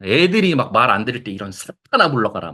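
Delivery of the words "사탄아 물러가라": mock rebuke. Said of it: "막, 어?".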